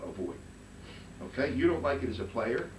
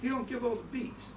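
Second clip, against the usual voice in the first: much higher, mocking the students' claim; mock student objection; 12 semitones higher than usual. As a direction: quote them in a squeaky mock voice. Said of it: "that's what people say".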